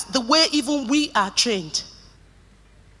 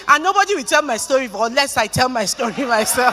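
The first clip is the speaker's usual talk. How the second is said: laughing emphasis. Real, not acted. Laughing emphatic self-assertion.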